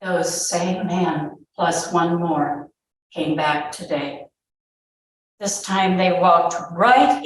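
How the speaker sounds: measured read-aloud narration with pauses; story narration. A narrator's reading. Mother recalling soldiers in her house, story narration. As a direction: read it out as a dramatic first-person tale.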